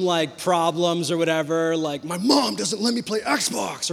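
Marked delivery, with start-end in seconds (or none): 2.0-3.9 put-on whiny kid. Teen complaining to mentor.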